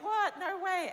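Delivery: high, loud incredulous outburst; retold shocked no way; disbelieving what. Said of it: "that it's just like".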